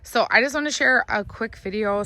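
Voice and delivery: hoarse, scratchy voice. Real, not acted. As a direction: talk through a scratchy throat. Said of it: "Sorry about my scratchy voice".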